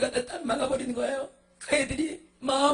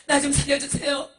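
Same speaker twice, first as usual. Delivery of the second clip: high, sobbing promises; tearful begging; 3 semitones higher than usual. Acted. Monk promising to preach Jesus if spared, tearful pleading. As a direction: cry out for rescue between gasps.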